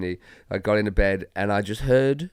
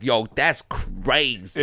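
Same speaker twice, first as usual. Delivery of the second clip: imitated amazement; much slower than usual. Retelling a stranger's amazed reaction.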